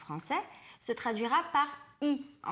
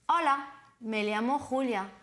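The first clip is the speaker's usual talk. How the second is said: model phrase. Shown as a demonstration. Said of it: "À toi de m'imiter ensuite".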